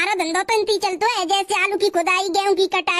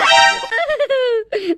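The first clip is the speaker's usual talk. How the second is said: higher acted howl of pain; pained wail; 3 semitones higher, 4 dB louder than usual. Prisoner hit by policeman's stick, pained wail. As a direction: wail out as the blow lands.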